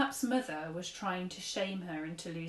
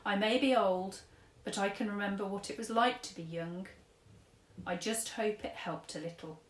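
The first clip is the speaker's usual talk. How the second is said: lightly voiced gentle old man giving advice; a hint of an old gent counselling a girl; kindly old tramp. Old tramp advises sad girl, lightly voiced kindly. Mister Stink speaks.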